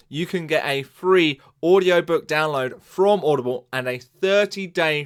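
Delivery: emphatic podcast ad read; punchy host-read advert; sponsor ad read. Acted. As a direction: sell the sponsor, spelling out the offer. Host reads sponsor message.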